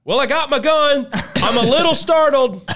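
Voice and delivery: high, loud reply breaking into a laugh; dry comeback that cracks into laughter; laughing retort. Retold or imitated. Retelling own reply holding gun.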